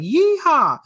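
high, whooping yeehaw. Retold or imitated. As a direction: whoop it like a storm chaser heading out. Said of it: "they're like".

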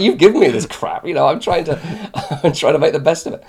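loud, high comic complaint breaking into laughter; mock-aggrieved, laughing as you protest; exasperated. Retelling a gripe about broken computers to the IT guy, exasperated.

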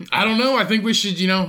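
mock earnest superhero; hesitant Superman. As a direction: play an unsure hero making his case. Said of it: "Superman wants to team up with Batman".

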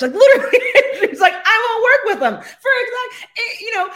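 laughing. Real, not acted. Retelling Adrian's blunt line to the interviewer, laughing hard. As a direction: crack up while retelling it.

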